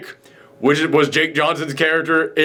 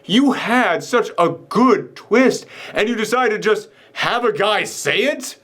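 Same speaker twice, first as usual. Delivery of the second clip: exasperated disbelief; 5 semitones higher, slower than usual. Acted. Acted disbelief at wasted twist.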